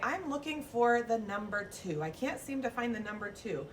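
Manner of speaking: mock puzzled teacher searching, high on yes; hammed-up hunt for the two; playful search. Shown as a demonstration. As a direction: play not finding the number. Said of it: "I say".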